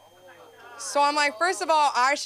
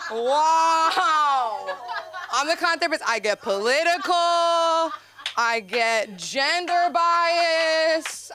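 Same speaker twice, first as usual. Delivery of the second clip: laughing; 5 semitones higher, much slower than usual. Real, not acted. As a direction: crack up at yourself. Laughing at herself as mean therapist.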